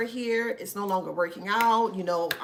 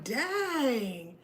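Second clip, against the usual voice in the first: excited; 8 semitones higher than usual. Retold or imitated. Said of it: "And I'm like".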